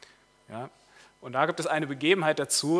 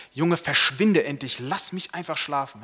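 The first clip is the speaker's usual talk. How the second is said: really annoyed; 5 dB louder than usual. Acted. Sleepy king scolding his valet, really annoyed. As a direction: snap at him to clear off. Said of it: "wird richtig genervt und fängt schon an, ihn zu beschimpfen".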